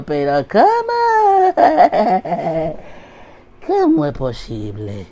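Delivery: high, stretched squeal of shock; be stunned, drag it out; shocked disbelief. Acted. Comedian learns the word means nothing, high and shocked.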